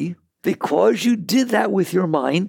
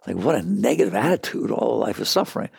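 mock negative attitude; 6 semitones lower than usual. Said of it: "it's not like Buddha was negative or anything".

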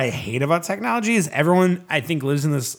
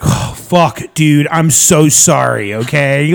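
louder mock-sorry, drawn out; sarcastic apology; 5 dB louder, slower than usual. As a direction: overdo the apology to mock him.

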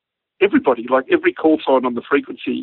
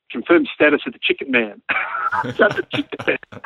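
high-pitched mock radio query, breaking into laughter; amused radio call; 10 semitones higher than usual. Cathay pilot asking about the chicken man, with amusement. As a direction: laugh through the repeated punchline, high and stretched.

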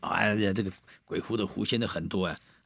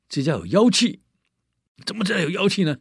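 Taoist priest; 10 semitones higher, 6 dB louder than usual. Acted. Taoist senses demon in house.

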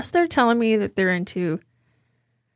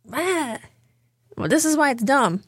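mock scoffing; 6 semitones higher than usual. Mocking dismissive arguers.

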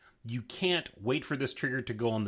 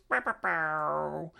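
slow, high "bow bow bow" sound effect; vocal sound effect, slow and buzzing; sound effect noise; 5 semitones higher, slower than usual. Acted. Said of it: "he makes up those noises".

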